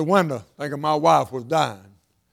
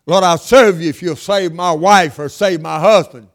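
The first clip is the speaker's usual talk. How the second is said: louder pleading prayer, pressing each word; loud mock prayer; 6 dB louder than usual. Preacher acting a churchgoer bargaining with God, loud plea. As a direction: call it out like a bargain with heaven.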